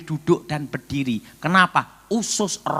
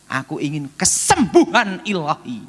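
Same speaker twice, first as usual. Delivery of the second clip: earnest declaration; 3 dB louder than usual. Retold or imitated. Answers as his earnest younger self.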